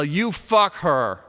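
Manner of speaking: slow yelled punchline. A narrator's reading. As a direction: yell it slow into his face. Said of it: "I yell".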